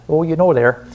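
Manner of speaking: playful touch of Wisconsin accent. Shown as a demonstration. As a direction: lean into a folksy Wisconsin accent for a moment. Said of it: "sorry for that Wisconsin accent slip".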